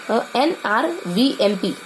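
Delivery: very slow, each letter stretched; a slow drilled chant of एनआरवीएमपी; drawn-out mnemonic. Shown as a demonstration. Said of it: "तो ये हमको ध्यान करना है".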